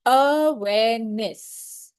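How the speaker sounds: very slow, syllables apart; syllable demo. Shown as a demonstration. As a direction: break awareness into three beats. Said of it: "Three syllables".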